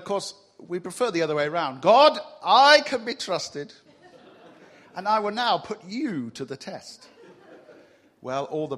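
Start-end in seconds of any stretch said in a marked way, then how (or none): 1.8-7.1 mock boastful prayer, laughing.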